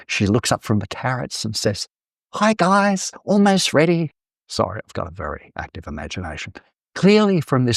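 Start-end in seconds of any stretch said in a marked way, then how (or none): 2.3-4.1 high, sing-out hello with a big smile; imagined, hammed-up happy call; cheery greeting. Martha looks up from the carrots to greet them, cheery greeting. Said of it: "She's got a big smile on her face".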